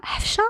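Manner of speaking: حفشة with sh in place of the s sound; toddler mispronouncing. A narrator's reading. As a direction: say حفشة like a small child who cannot say Hafsa. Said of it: "عمران ما عرفش ينطقها".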